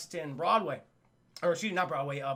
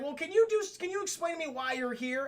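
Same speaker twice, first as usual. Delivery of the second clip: cop voice; 9 semitones higher than usual. Retold or imitated. Cop questioning in retold story.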